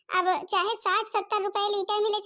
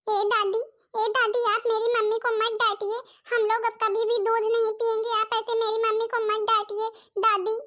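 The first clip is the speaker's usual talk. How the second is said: put-on higher, a child's pleading voice; little girl pleading; 4 semitones higher than usual. Granddaughter begging grandmother to stop scolding mummy, in a higher child's pleading voice. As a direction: beg grandma like a small girl.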